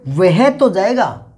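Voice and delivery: slow, with तो dwelt on after वह; stress on तो. Shown as a demonstration. Teacher showing the emphatic तो to the class, slowly. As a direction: drag out वह तो. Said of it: "वह के बाद में आ गया ये".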